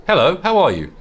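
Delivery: lightly voiced hungry zombie; a hint of dopey zombie. Voicing the zombie NPC talk.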